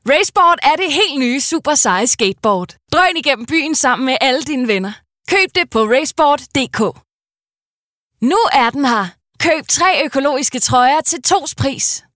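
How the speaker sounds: hyped youth ad. Acted. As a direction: shout it out like a teen promo.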